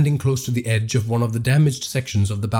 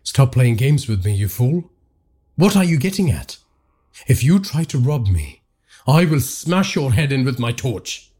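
angry. Acted. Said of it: "unable to contain his anger".

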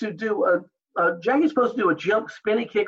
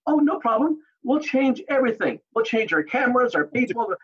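raised, mock-obliging sarcasm; sarcastic offer to change everything, pitched up; facetious; 5 semitones higher than usual. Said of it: "and being facetious".

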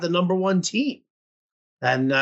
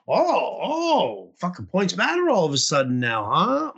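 sarcastic mock outrage. To league opponents, sarcastic mock outrage. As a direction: scoff at them in a mocking wail. Mocking opponents' sudden points logic.

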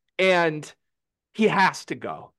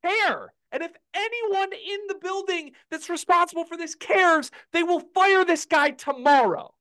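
impassioned anger; 9 semitones higher than usual. Real, not acted. Furious fan rant.

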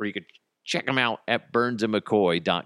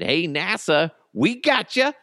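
high, louder mock company shout-out; eager offer; 9 semitones higher, 4 dB louder than usual. Oscar Mayer answers NASA's tweet, eager offer. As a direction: pitch climbing into a cheeky offer.

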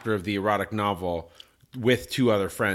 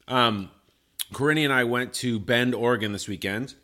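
talking while eating strawberries; words round a mouthful of berries; mouth full. Real, not acted. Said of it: "I'm eating these delicious strawberries".

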